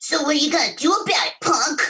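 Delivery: put-on tough, high little schoolyard bully boy voice. Showing the little bully role from an animation job: little bully boy voice. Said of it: "all he sounded was like".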